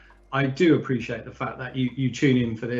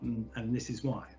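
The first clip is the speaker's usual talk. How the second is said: softly imitated sheepish apology, trailing quieter; mock gloom; 2 semitones lower, 6 dB quieter than usual. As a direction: own up to the boss, subdued and mildly gloomy. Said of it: "there's a look of gloom".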